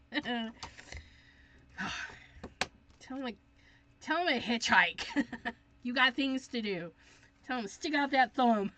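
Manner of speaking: teasing laugh. Real, not acted. Teasing joke to viewer.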